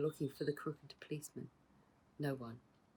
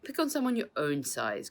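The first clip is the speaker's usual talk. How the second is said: growled; 2 semitones higher, 5 dB louder than usual. Acted. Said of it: "growled Uncle Cosmo".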